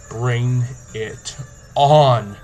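slow, dramatic challenge. Acted. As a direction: drag it out like a movie hero. Challenge to the zombies.

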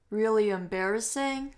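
"embarrassing" dips, then rises at the end; fall-rise tune. Shown as a demonstration. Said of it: "它用的是先降后升这样子".

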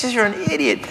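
quiet aside to himself; muttered self-reproach. Acted. Comic pulls himself aside after blunder, muttered self-reproach. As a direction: scold yourself under your breath.

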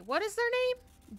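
high, slow disbelieving question; high incredulous question. Real, not acted. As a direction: ask it stunned and drawn out. Reacting to opponent.

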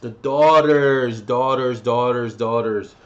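"Daughters" drawn out slow and loud, then repeated fading; slow emphatic band name. Shown as a demonstration. Vlogger drilling the band name, slow and loud. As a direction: spell out "Daughters" so viewers remember it. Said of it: "look them up".

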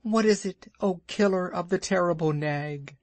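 high, chirpy bird voice boasting; little bird Darzee. A narrator's reading. Darzee boasting to Rikki about Nag's death, high and chirpy. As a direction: puff up like a proud tiny bird.

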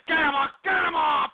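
yelling get him off, voice jumping up; angry shout. Acted. Radio host yells at the engineer, furious shout.

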